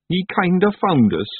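high Scottish creature voice; Daft Wooly explaining. A narrator's reading.

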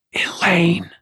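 high ringing call. A narrator's reading. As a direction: call her name sharply. Calling out to her mind.

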